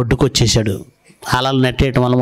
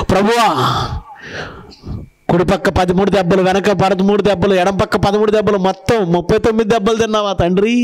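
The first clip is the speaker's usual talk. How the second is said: higher, evenly pitched lament imitation; mock weeping prayer; 4 semitones higher than usual. Preacher mimicking a woman crying to the Lord over the lashes, mock lament. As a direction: imitate a woman wailing out a tally. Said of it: "ఒక ఆవిడ ఏడుస్తుందండి".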